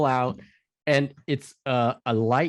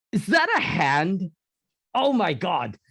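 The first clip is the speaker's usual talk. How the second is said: mock dismay; 4 semitones higher than usual. Soldier finds hand in dog's mouth.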